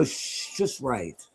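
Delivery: teacher hushing in a whisper; whispered shush. Retold or imitated. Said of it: "you'd go".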